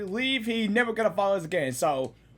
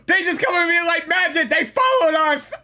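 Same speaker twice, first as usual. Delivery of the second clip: alarmed exclamation; 5 semitones higher, 4 dB louder than usual. Real, not acted. Thugs appear.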